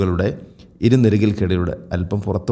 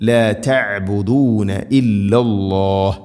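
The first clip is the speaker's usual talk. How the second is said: slow, measured tajweed chant; Quranic recitation; much slower than usual. Shown as a demonstration. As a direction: recite with long held vowels. Quran teacher models the recitation.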